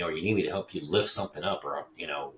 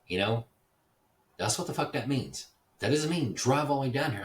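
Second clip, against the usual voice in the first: higher, louder scolding; retold angry rant; 9 semitones higher, 5 dB louder than usual. Man scolding neighbor for dropping by uninvited, loud and angry. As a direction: chew him out for showing up again.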